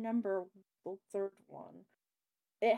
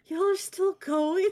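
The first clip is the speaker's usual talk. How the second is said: laughing disbelief, higher and louder; 12 semitones higher, 10 dB louder, slower than usual. Real, not acted. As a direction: laugh through the question. Returns, finds friends still joking.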